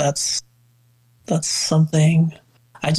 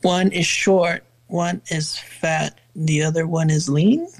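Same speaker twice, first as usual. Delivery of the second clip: slow recalling; slower than usual. Real, not acted. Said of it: "Can you say the, the song?".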